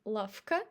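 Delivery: lavka with f, said lafka; lavka, v turned to f; devoiced v. Shown as a demonstration. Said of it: "we say f instead of v".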